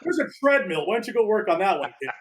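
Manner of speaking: high, taunting master voice; mocking master. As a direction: taunt the chubby kid. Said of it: "Oliver skit, mocking the kid".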